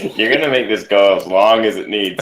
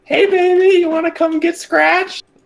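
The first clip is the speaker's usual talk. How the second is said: over-the-top, very high, exaggerated feminine yell. Player voicing his character in a game, yelling in exaggerated feminine voice. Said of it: "yells in the most feminine voice he can".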